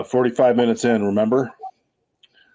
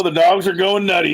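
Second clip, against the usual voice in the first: tinny speakerphone sound, like in a tunnel; 5 semitones higher than usual. Real, not acted. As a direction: voice distant through a phone speaker. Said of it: "now it sounds like you're on speakerphone".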